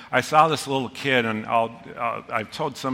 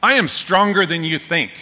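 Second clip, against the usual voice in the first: put-on kid's boast; 5 semitones higher, 5 dB louder than usual. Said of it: "points at me".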